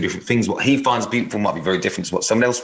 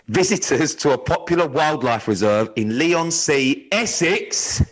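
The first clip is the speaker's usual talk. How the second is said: sexy voice; slower than usual. Pretend. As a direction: read it slow and seductive. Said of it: "do it in sexy voice".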